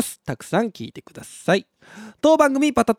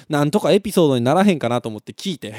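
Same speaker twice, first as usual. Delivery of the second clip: ordinary talk, nothing marked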